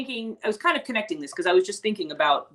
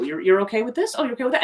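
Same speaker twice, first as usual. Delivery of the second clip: imitating pleasantly surprised students, pitch climbing; mildly surprised; 4 semitones higher, faster than usual. Students finding the teacher is okay with it, mildly surprised. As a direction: check it with rising, mock surprise.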